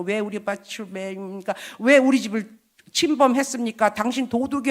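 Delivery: mock angry yell. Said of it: "막 소리 지르고".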